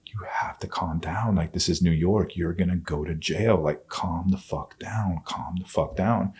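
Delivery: retold plea in a half-whisper; hushed urging. Man urging his violent girlfriend to settle, hushed. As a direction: keep it soft, trying to talk someone down. Acts out calming his attacker.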